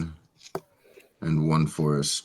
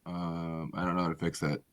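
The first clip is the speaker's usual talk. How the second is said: from another room; 10 dB quieter, much faster than usual. Real, not acted. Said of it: "you sound like you're in another room".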